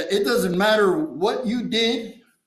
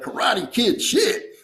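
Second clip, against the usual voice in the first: put-on slow, puzzled repeat of Karate Kid shit; incredulous echo; slower than usual. Repeating the counselor's words back in disbelief, slowly. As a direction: echo it back like you can't believe it. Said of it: "And I was like".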